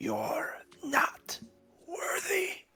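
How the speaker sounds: put-on angry old feminine voice. Telling Aaron what he hears in his head, in an old, angry, feminine voice. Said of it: "three words in a old, angry, feminine voice".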